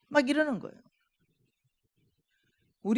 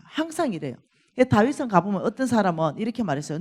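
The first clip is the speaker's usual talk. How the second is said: usual speaking voice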